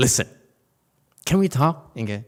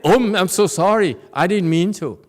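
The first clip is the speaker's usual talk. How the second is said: high, lightly hammed sorry; a touch of sheepish apology; mock apology; 7 semitones higher, 7 dB louder than usual. Teacher imitates a worker apologizing to a colleague. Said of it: "You don't like it?".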